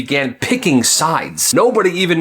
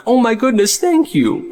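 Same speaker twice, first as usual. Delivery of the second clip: high delighted thanks; gushing teacher; 9 semitones higher than usual. Acted. Teacher gushes over the student's gift, high and delighted. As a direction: squeal it with delight, pitched up.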